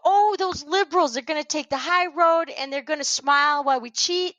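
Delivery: high, mock-scheming quote; mocking opponents. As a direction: mimic smug cheaters making fun. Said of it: "they go".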